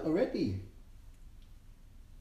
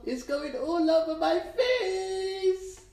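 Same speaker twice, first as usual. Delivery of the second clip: mock alarm; 10 semitones higher, 4 dB louder, much slower than usual. Real, not acted.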